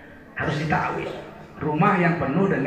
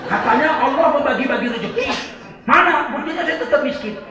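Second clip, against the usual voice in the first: mock complaining congregant; 5 semitones higher than usual. Congregant complains poverty, mocking.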